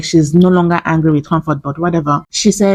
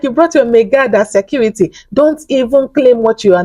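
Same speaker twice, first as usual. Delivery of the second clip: mocking; 6 semitones higher than usual. Retelling Princess mocking Arafa.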